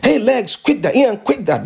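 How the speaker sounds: mock telling your own legs to stop shaking; stern self-rebuke. Shown as a demonstration.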